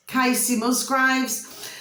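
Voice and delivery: slow, deliberate name; slow dictation. Shown as a demonstration. Repeating the singer's name for viewers to type, slowly. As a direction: spell it out slowly again.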